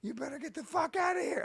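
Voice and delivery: half-scared fake bravado; mock tough threat. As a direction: bluff the burglar, voice climbing. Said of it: "and I go".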